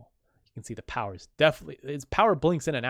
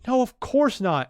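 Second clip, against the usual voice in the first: light denial; 10 semitones higher, 5 dB louder than usual. Retold or imitated. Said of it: "he goes".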